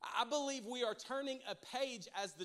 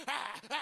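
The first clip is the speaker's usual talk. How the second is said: imitated dog noise; 3 semitones higher, 3 dB louder than usual. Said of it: "And he's like".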